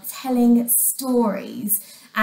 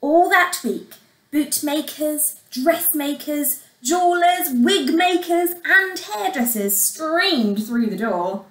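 put-on measured storyteller for young children; expressive bedtime-story reading; story narration; 3 semitones higher than usual. A narrator's reading. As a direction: tell it like a fairy tale, words carefully weighted.

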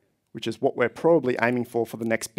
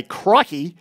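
quick mock Australian Steve Irwin exclamation; Steve Irwin accent; 3 semitones higher than usual. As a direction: toss off a hammed-up Australian Steve Irwin "Crikey". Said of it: "If I put on a pretty nasty Australian Steve Irwin accent".

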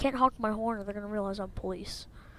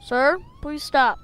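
calm turning angry. Real, not acted. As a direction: start polite, build to firm anger. Traffic stop escalating in game.

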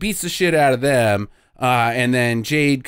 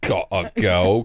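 slow, lower imitation of bad Cockney; mock Cockney accent; 6 semitones lower, slower than usual. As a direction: mimic a botched Cockney accent, dragged out. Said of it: "'cause he's fucking Cockney".

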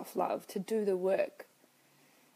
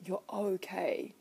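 kind self-talk. Retold or imitated. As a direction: comfort yourself gently. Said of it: "speaking to myself really kindly".

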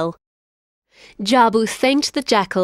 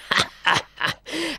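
lion laugh; 7 semitones higher, 4 dB quieter than usual. Acted. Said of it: "The lion stopped and laughed".

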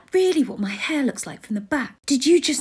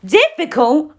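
disbelieving "Difficult?" with a rising, louder tune; incredulous; 5 dB louder, slower than usual. Acted. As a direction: throw "Difficult?" back in disbelief. Incredulous echo of the word.

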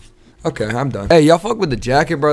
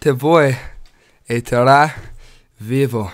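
practicing Spanish; 2 semitones lower than usual. Shown as a demonstration. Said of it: "practicing my Spanish".

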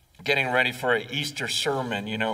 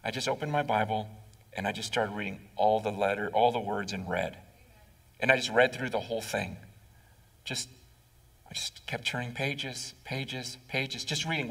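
retold friend, low and soft; voicing the friend, soft and understated; quiet retelling; 6 semitones lower, 7 dB quieter, faster than usual. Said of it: "he goes".

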